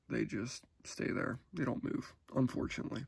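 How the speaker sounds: half asleep, words fading out; nodding off. Real, not acted. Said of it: "I'm half asleep".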